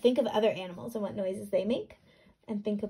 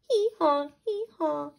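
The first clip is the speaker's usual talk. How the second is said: raised braying hee haw; donkey bray; 8 semitones higher, 5 dB louder than usual. Acted. Reading the donkey's reply, a braying hee haw. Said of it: "said the donkey".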